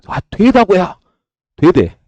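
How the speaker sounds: retold Busan-dialect outburst. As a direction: insist loudly in Busan dialect. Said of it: "그 부산 학교 체험 가가지고".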